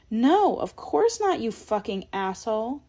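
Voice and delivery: an imagined outburst, only half voiced; imagined holler.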